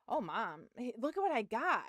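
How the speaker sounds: mock-excited kid showing something off; a lively imitation of an excited boy; imitated excited son. Son showing mom his catch, mildly excited. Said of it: "he's all excited".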